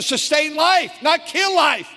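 fiery pulpit outburst; preacher's shout. Real, not acted. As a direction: bark it out as the punchline. Preacher's climax on life.

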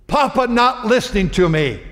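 imitating the grandson telling his mom; child complaining. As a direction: whine it like a hurt little boy.

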